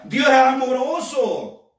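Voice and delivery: slow, drawn-out mock persuasion; voz del enemigo. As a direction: stretch it out as the coaxing tempter. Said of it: "la misma voz que le dijo a Eva". (imitando al enemigo, muy alargado)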